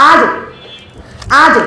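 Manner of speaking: আজ with the জ bounced; qalqala bounce. Shown as a demonstration. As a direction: push জ down with a light echo. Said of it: "এভাবে বলতে হবে".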